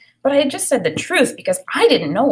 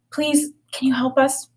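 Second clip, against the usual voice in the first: a hushed whisper asking for help; frightened child whispering a prayer; 4 semitones higher than usual. Acted. Child praying quietly for help.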